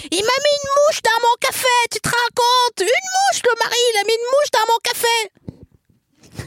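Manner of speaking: a shrieking hairdresser, indignant, a fly in her coffee; hairdresser impression. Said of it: "elle imite la coiffeuse".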